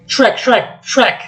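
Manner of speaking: high frantic calls for help; Donkey calling Shrek in panic; panicked calling. Acted. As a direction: shriek for your friend.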